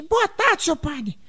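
vozinha aguda de menino, em falsete; Sininho. Acted. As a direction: cumprimente como criança, bem agudo. Menino responde ao padre. (menininho respondendo ao padre, falsete)

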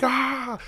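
high but held-back imitation scream; mock scream. Nurses react to him drinking it, mock scream. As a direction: imitate a scream without the volume. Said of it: "they started screaming".

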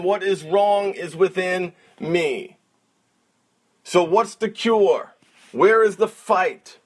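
normal talking voice

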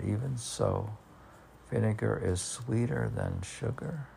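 softly questioning the strange line; incredulous question. Real, not acted. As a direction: repeat it back in disbelief. Oh, wait a minute.

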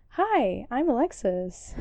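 bright customer-service greeting; phone voice. Shown as a demonstration. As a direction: put on a friendly phone voice. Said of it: "That's, that's my phone voice".

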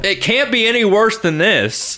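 high, slow, dramatic movie-trailer line. Acted. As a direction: deliver it like an over-the-top trailer.

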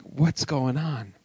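drawn-out, understated unease; freaking-out Moses. Retold or imitated. Moses faced with a talking bush, quietly bewildered. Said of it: "he's probably more like".

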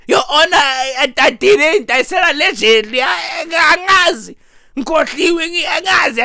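halting, stammered excuses, pitch creeping up; flustered defendant. Acted. Defendant pleading ignorance to Your Honor, flustered. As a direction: play a defendant tripping over denials.

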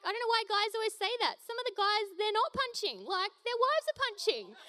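high mock husband voice; imitating husband. Wife quoting husband Tim to congregation, mock high voice. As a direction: playfully quote Tim high. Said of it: "He's always like".

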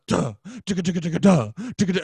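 chugging mouth-made band riff; imitated hardcore riff. Runner hearing hardcore music, chugging riff imitation. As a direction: bang out the music's rhythm with your mouth. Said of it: "and then you'll hear, like".

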